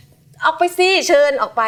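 polite, nonviolent coaxing. Retold or imitated. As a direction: invite the gecko out gently. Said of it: "จะไม่ใช้ความรุนแรง".

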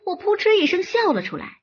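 usual speaking voice

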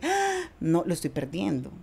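retold alarm, soft and sinking; retold fright. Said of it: "me asusté".

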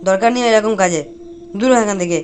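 loud, defiant outburst; storming out in a temper; angry quitting. Acted. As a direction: throw the job back at the boss. Sacked worker quits in anger.

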